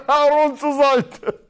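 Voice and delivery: laughing, slow. Real, not acted. Laughing about Aaron the helper.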